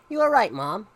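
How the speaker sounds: calling out. Acted. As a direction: call it through to mom. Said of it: "Spencer called from his bedroom".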